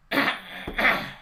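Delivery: harsh throat clearing cough. Real, not acted. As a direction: clear your throat roughly. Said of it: "Sorry, I'm coughing so much".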